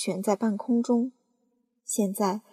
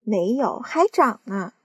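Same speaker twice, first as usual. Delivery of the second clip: shouting back; 5 dB louder, slower than usual. Acted. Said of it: "喊起来".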